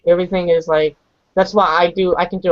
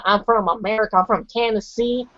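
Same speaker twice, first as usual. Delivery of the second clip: American accent; 3 dB quieter than usual. Shown as a demonstration. Showing how Americans talk, American accent. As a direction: put on a light American accent. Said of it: "that's how American people talk".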